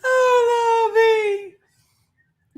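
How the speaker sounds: high, loud wail after laughing; helpless laughter. Real, not acted. Streamer recovering from a laughing fit, helplessly amused wail.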